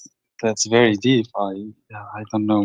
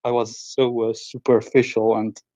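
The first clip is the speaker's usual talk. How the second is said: crying. Real, not acted. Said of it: "but you are crying".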